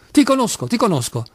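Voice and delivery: high start, then dropping on the repeat; dazed repetition. A narrator's reading. Clerk keeps repeating to Kolia, as if dazed. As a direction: repeat it as if stupefied. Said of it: "ripeteva il commesso come inebetito".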